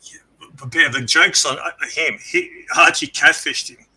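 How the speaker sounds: tinny robotic line; metallic voice. Real, not acted. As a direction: sounds like a bad connection. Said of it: "why you sound so metallic".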